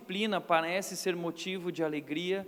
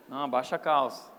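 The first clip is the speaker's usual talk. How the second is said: stern father's order; 8 semitones lower than usual. Retold or imitated. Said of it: "o pai falava aquelas palavras assim".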